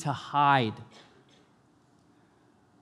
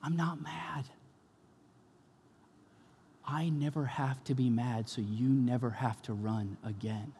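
much softer, calm and soothing; gentle reassurance; 3 semitones lower, 7 dB quieter than usual. Acted. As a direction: quietly take away all fear. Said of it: "he looks at you and he says".

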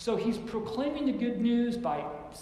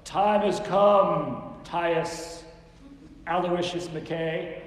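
angry scolding; 3 semitones lower, much slower than usual. Shown as a demonstration. Preacher imitating anger from the soapbox, scolding. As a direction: scold like calling out a full name. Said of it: "said it with anger".

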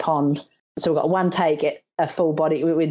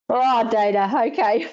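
higher, chuckling as he gives in; amused laugh; 6 semitones higher than usual. Retold or imitated. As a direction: give in with a laugh. Friend's amused reply.

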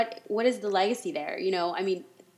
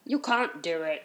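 lightly voiced Mrs. Doubtfire-style British accent; half-hearted put-on British accent; a hint of hammy British impression; mock British accent. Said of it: "You sound like Missus Doubtfire".

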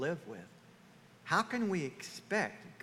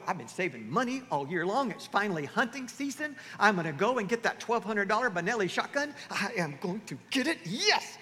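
excited hunter; 3 semitones higher than usual. Acted. Acts husband thrilled about shotgun.

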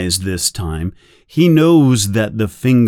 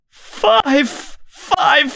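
desperate giving in. Acted. Winston giving in to pain.

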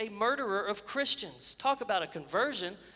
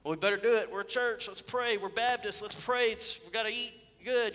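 higher-pitched mock obligation; imitating dutiful churchgoers; 4 semitones higher than usual. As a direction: lightly mimic people praying just because they should. Mimics churchgoers praying out of habit.

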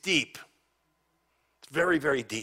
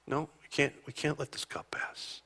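hushed refusal; 7 dB quieter than usual. Retold or imitated. Father voiced refusing the cup.

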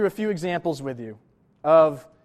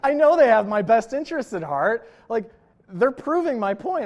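laughing at himself; 5 semitones higher, 6 dB louder than usual. Real, not acted.

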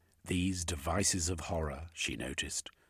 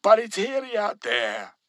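worried worker; 12 dB louder than usual. A narrator's reading. Workers disapproving chorus.

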